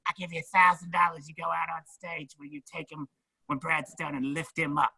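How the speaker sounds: high conspiratorial put-on voice; imitating Ralphie. Ralphie offering a grand backstage, high sly voice. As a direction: pitch up and tempt him with the cash.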